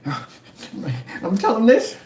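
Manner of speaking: sing-song taunting impression; mocking troll voice. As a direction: parody them as petty tattletales. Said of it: "they're telling me".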